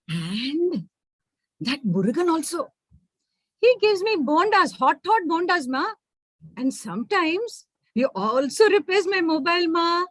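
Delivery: lightly voiced child, chirpy; a daughter boasting to her ma; chatty little girl. Manju listing her helpers.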